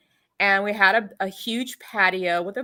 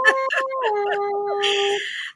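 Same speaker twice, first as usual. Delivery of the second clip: joyful reunion laugh; 13 semitones higher than usual. Real, not acted.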